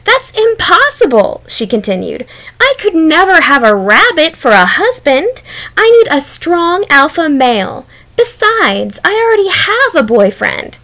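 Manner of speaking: high haughty wolf. Acted. Wolf voiced refusing rabbit.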